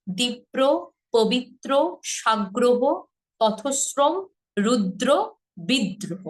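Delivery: word list with split clusters, দীপ্র as "dip-pro"; দ্বিগুণ উচ্চারণ. Shown as a demonstration. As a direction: double before r, পবিত্র as "pobit-tro". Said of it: "এইভাবে". ("রুদ্র" বলো রুদ্-দ্র, বাকিগুলোও তাই)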